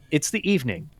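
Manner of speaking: measured scene-setting read; story narration. Acted.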